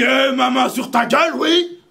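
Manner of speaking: very high, loud shout, then a laugh; loud mock roar ending in a slow laugh; gruff roar. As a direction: bellow it, then laugh in triumph. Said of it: "d'un gros râle bien rauque".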